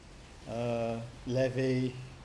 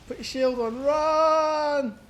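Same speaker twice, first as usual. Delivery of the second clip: much higher, loud urgent call; excited urging; 10 semitones higher, 5 dB louder, much slower than usual. Real, not acted. Streamer shouting at his unit to flee, excited. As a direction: hurry the unit away.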